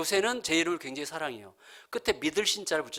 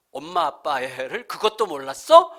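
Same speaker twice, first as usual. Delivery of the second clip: put-on slow, louder, incredulous child's reproach; mock scolding; 2 semitones higher, 6 dB louder, slower than usual. Six-year-old daughter sure she is right, mildly scolding. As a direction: imitate a cocksure kid telling off parents. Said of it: "꾸짖을 만큼".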